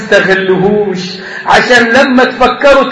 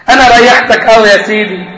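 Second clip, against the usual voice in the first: sly servant. Acted. Servant mocking master.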